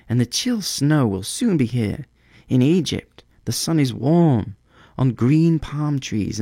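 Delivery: high, tender bird voice, slowing on dreams of Egypt; a small bird longing for the south; high wistful little bird; swallow. Acted. Swallow's farewell speech.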